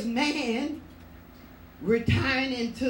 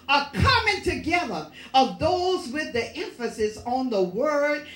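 emphatic preaching; 2 semitones higher, 3 dB louder than usual. Real, not acted. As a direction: preach it with building force. Preaches with rising force.

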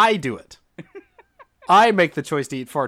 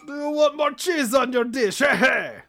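much higher, shouty caricature Italian; mock Italian waiter; 12 semitones higher than usual. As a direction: push the dish on them like a cartoon waiter. Bit of Italian waiter voices.

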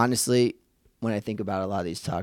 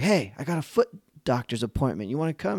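imitating the Ted Lasso coach; 4 semitones higher than usual. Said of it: "he's like".

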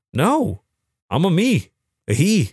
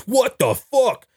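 high, slow shocked what; high drawn-out disbelief; shocked gasp; 10 semitones higher, slower than usual. Retold or imitated. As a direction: stretch it out in disbelief. Bystanders' shock, retold.

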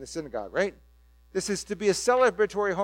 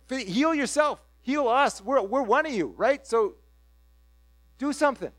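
higher, louder pushy neighbours; demanding townsfolk; 3 semitones higher, 4 dB louder than usual. Retold or imitated. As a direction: press him like a hometown crowd.

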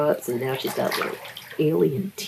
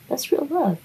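ironic laugh; 14 semitones higher than usual. Real, not acted. Ironic remark then laughs.

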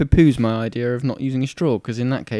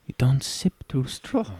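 put-on slow, heavily accented barman telling you off; lightly put-on broken English accent of a holiday barman; 6 dB quieter, slower than usual. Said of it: "It is broken English".

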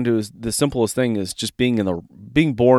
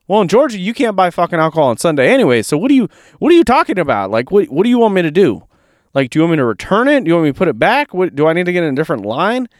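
exasperated rant; 4 semitones higher, faster than usual. Retold or imitated. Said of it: "And I'm like".

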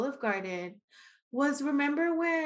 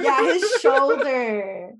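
laughing; 2 semitones higher, 10 dB louder, much slower than usual. Real, not acted. Laughing about dad's shoulder.

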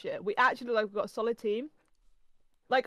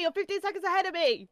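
indignant repeat; 9 semitones higher than usual. Real, not acted. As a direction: say it again, still outraged. Repeats the protest, slower.

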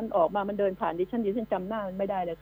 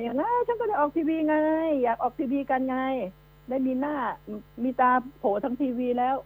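mocking imitation; 2 semitones higher than usual. Mocking criminals who enjoy TV fame.

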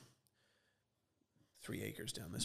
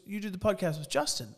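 excited clerk; 8 semitones higher, 4 dB louder than usual. Retold or imitated. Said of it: "He goes".

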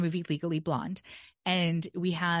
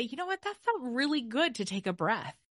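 pleased brain voice; 3 semitones higher than usual. Pretend. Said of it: "the dopamine is to be able to say".

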